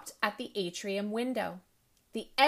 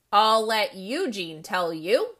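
loud and slow, booming; trumpeting; 7 dB louder than usual. Acted. Teacher hauling the boy in, trumpeting loudly. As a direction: announce it like a trumpet blast. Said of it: "Missus Belding trumpeted".

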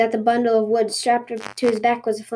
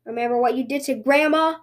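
vengeful shout; 4 semitones higher than usual. Acted. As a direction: hurl it as payback. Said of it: "shouted the bunny".

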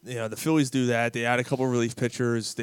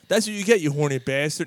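higher, louder mock scold; 3 semitones higher, 5 dB louder than usual. Farmer scolding his rooster, mock angry. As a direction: tell off the randy rooster.

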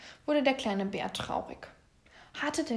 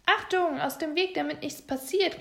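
higher, louder storybook warning call; 6 semitones higher, 4 dB louder than usual. A narrator's reading. Papa Bär warning during the house building, calling out. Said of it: "rief Papa Bär".

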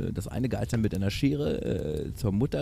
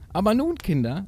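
put-on high-pitched goat mother addressing her kids; mother admonishing; 10 semitones higher than usual. A narrator's reading. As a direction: urge the children in a raised voice. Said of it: "mahnte die Mutter". (mahnende Geißenmutter)

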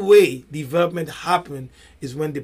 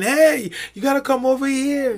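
higher-pitched call from afar; mock scream; 7 semitones higher than usual. Voice on the other side of the wall calling over, mock scream. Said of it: "Somebody might be screaming".

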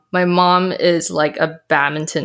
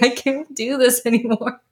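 mock crying; 5 semitones higher than usual. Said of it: "I start crying".

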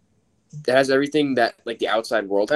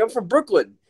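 excited cop; 11 semitones higher than usual. Retold or imitated. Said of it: "He's like".

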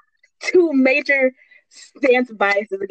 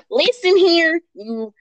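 slow, drawn-out patriotic declaration; mock fierce patriot; 2 semitones higher, slower than usual. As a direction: declare it like a hammed-up American patriot. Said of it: "the most patriotic person".

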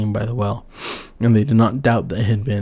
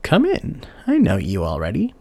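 kindly call; 3 semitones lower than usual. Acted. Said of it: "called out quite kindly".

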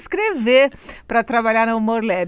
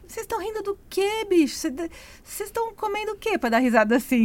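incomodado; 8 semitones higher, 6 dB quieter than usual. Retold or imitated. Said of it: "que falava".

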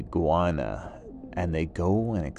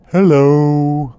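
loud, high vulture greeting; creepy vulture croak; 8 semitones higher, 11 dB louder than usual. Acted. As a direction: swoop in with a big hello.

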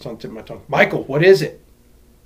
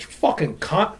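imitated Aussie cussing; 4 semitones higher, slower than usual. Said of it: "you just hear them, every sentence".

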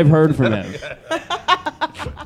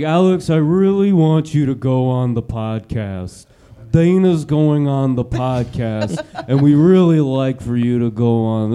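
impression of Josh; 2 semitones lower, slower than usual. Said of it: "it'll be something like".

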